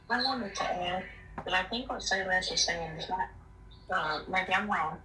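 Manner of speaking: muffled phone line. Real, not acted. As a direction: voice muffled like through a wall. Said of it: "It sounds like you're, um, muffled".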